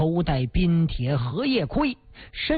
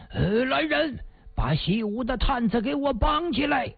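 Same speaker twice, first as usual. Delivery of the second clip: shouted order raised high; big shout; 5 semitones higher than usual. Acted. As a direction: bark for the guards to bind him. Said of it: "一声大喊".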